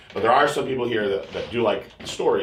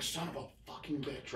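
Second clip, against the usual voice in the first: much softer, under the breath; muttered curse; 19 dB quieter than usual. Retold or imitated. He curses under his breath at the monitor. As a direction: swear quietly to yourself.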